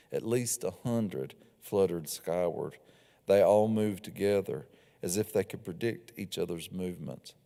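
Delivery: measured, unhurried reading of a novel scene; story narration. A narrator's reading. Author reading her novel scene to listeners, calm storytelling narration. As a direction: read the passage aloud to the audience, evenly.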